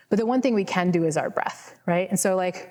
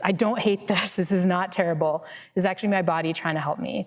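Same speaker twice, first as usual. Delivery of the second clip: calm, kind words to your own body; gentle, grateful inner voice; reassuring self-talk. Shown as a demonstration. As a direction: soothe yourself instead of complaining. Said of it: "that change in self-talk".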